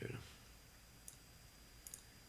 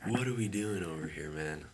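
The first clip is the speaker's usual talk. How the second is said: louder, exasperated demand at the chart; frustrated outburst; 7 dB louder than usual. Real, not acted. Trader yelling at his losing trade, loud frustration. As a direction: throw the question at the screen. Trade going against him.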